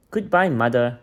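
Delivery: loud parting call to mother; calling goodbye. Acted. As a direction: call it out across the room as he leaves. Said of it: "called Lenny".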